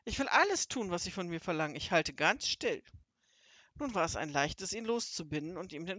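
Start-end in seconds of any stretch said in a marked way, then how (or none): 0.1-2.8 high, anxious begging; frightened pleading, high at the start. A narrator's reading. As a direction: beg for mercy, promising anything. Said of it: "flehte Hotzenplotz".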